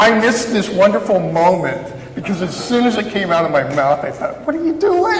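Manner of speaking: high and loud, laughing through the words; real amused laughter; laughing while telling. Real, not acted. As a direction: tell it while cracking up. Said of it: "laughing through story".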